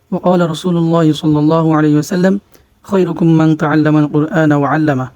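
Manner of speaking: slow, measured Quranic recitation; Arabic recitation. Acted. Teacher opens Quran lesson for viewers, slow recitation. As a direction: recite the opening at an unhurried, even pace.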